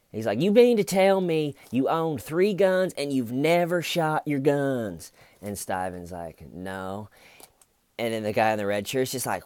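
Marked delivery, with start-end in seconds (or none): 0.4-5.1 high, loud, exaggerated disbelief; mock incredulous grilling. Detective incredulously grilling Steven, acted. 6.5-7.1 quiet retold denial. Acting out Steven's meek answer.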